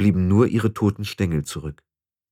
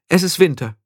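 cold; 9 semitones higher, 3 dB louder than usual. Acted. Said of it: "sagte sie kalt".

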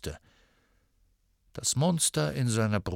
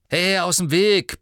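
higher, louder bark; barked order; 8 semitones higher, 8 dB louder than usual. Acted. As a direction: bark at her to move. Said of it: "bellte Ron".

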